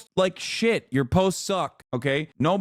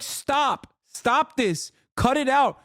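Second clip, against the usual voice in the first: higher, scolding; exasperated scold; 6 semitones higher, slower than usual. Retold or imitated. Imagined official scolding the TikTokers, exasperated. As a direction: tell them off, fed up. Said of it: "I'll be like".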